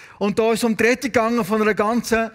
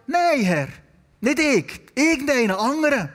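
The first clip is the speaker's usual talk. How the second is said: emphatic imitated protest, slightly raised; blunt refusal; 3 semitones higher than usual. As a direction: retell it as a pointed no. Blunt paraphrase of Moses' refusal.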